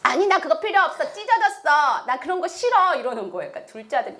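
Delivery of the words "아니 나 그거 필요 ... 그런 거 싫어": put-on higher voice of a complaining child; refusing youngest son. Youngest son rejecting the torn bill, complaining. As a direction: refuse like a fussy little brother. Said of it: "셋째 아들이".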